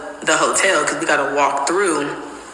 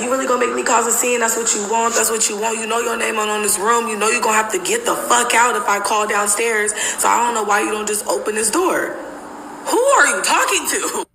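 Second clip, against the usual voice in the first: retold yelling; 5 semitones higher than usual. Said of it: "He's doing so much yelling".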